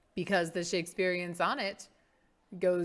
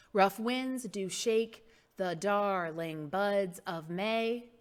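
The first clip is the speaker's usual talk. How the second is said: Thou art more lovely, with every second syllable leaned on; exaggerated iambic stress; 3 dB quieter, slower than usual. Shown as a demonstration. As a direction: beat out "rough WINDS do SHAKE the DARling BUDS of MAY". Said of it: "they all go like this".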